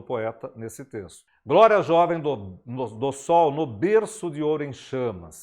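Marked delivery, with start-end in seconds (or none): 1.5-5.4 declaiming the sonnet line aloud; poetry recitation. Shown as a demonstration. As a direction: read the verse as a recited poem. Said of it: "Agora faremos uma leitura".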